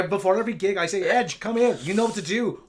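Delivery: put-on Irish accent; hammed-up Irish rock star telling a tale; a singer. A singer calling over his guitarist before a gig, mock Irish accent. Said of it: "do this Irish accent".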